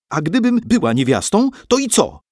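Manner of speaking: high, loud indignant shriek; girl shrieking. A narrator's reading. Gagged girl freed, shrieks at the monks. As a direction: yell it back at them. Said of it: "wrzasnęła Basia".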